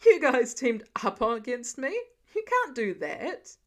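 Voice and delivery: loud, indignant protest; outraged squawk. A narrator's reading. Clint protests the kids teaming up, loud mock outrage. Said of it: "Clint squawked in outrage".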